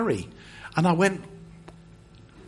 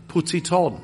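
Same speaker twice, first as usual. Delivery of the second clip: put-on French-accented instruction. French pastor to a baffled visitor, in a French accent. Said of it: "That's a French accent for you".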